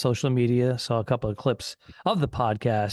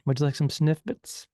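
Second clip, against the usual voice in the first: flight attendant. Pretend. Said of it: "something you would serve on an airline".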